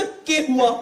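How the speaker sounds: put-on Haryanvi challenge; चौड़ी Haryanvi. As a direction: act tough in borrowed Haryanvi. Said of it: "अपने अंदर की सारी हरियाणवी इकट्ठी करी". (नकली हरियाणवी लहजे में)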